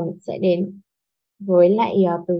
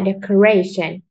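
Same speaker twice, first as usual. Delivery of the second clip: "Decoration" with emphasis on "ra"; teacher's model "Decoration", stress on "ra"; stressed syllable. Shown as a demonstration. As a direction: lean on the third syllable of "Decoration". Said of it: "Cố gắng nhấn mạnh vào từ gray".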